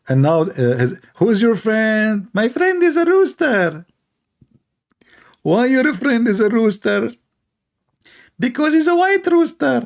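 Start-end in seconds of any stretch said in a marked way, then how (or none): 1.2-9.8 mocking dialogue.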